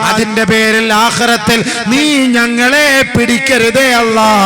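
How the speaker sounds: high, loud, slow chanting preacher's voice; sermon delivered at full force, stretched slow; full-force preaching. Acted. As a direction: preach it out, drawn long and loud to the hall.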